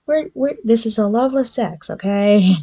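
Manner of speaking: high, protesting insistence; squeaky mock protest; high indignant heroine.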